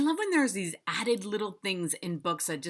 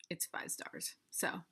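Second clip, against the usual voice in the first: whispered reveal; 11 dB quieter than usual. Real, not acted. Revealing the rating.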